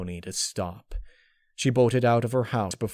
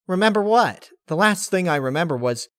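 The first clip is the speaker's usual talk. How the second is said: higher, louder confused demand; Rainbow Dash voice; 8 semitones higher, 7 dB louder than usual. Acted. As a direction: cut off mid-thought.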